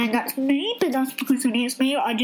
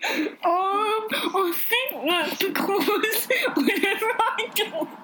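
pinching nose; 5 semitones higher than usual. Pretend. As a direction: giggly voice with nose held. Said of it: "I'm pinching my nose".

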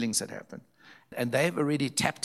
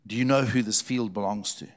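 louder, mildly stern retold question; quite stern; 6 dB louder than usual. Old man questioning David about the field, quite sternly. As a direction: put firm weight into the old man's challenge. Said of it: "he says quite sternly".

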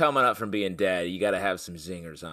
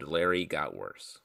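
whispered; 5 semitones lower, 5 dB quieter than usual. Acted. Dramatic hushed aside.

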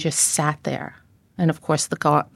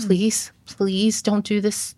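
retold pleading; 3 semitones higher, much slower than usual. Retelling her plea to him.

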